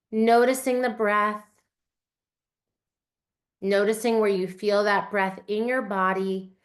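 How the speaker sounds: calm meditation guide counting breaths; guided meditation. Acted. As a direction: talk them gently through each breath.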